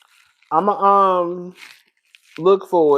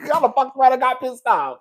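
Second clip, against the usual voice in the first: unvoiced whisper through laughter; laughing whisper; 2 semitones higher, 5 dB quieter than usual. Real, not acted. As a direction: whisper it with a giggle.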